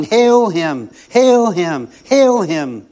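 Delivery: measured, drawn-out chant of praise; crowd shouting acclaim. Acted. Preacher voices the crowd greeting Jesus, mildly shouted acclaim. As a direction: cry it out like a cheering crowd. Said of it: "now they were shouting".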